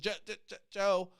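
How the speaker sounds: imitating a stuck start on Jo-; a mock stutter on Joe. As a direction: repeat the first sound like a stutter. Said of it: "I'm not making fun of his stutter".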